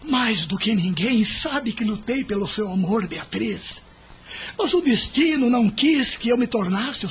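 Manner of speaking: with emotion in his voice. Acted. Husband pleads to his wife with tearful emotion. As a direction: hold back the crying as the words come. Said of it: "disse com emoção na voz".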